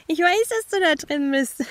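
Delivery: put-on high, loud teasing little girl through a door; playful spooky child taunting; young girl voice. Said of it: "das lachend sagte".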